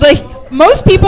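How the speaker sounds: MOST said high and loud; stress on most. Real, not acted. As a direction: lean hard on the word most. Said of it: "I'm s-, most".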